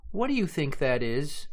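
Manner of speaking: Sister Rabbit. Acted. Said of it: "Sister Rabbit asked".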